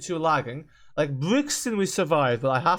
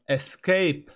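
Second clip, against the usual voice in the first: usual speaking voice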